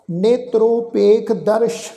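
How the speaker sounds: slow, measured recitation of gurbani, phrase by phrase; scripture recitation. Acted. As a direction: chant each line devoutly with pauses.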